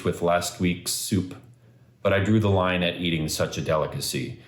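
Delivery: measured poetry recital, each phrase starting up and settling down; poem reading. Acted. Son reading his poem addressed to his dad, measured recital. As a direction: read the poem aloud, phrase by phrase. Reads own poem aloud.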